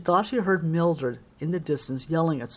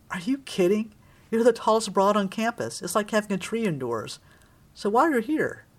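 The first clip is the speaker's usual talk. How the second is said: a hint of a brash, chain-smoking secretary, pitched up; lightly voiced secretary; 5 semitones higher than usual. Secretary teasing a tall visitor in the office, lightly brash. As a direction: lightly play a blunt office secretary, higher than usual.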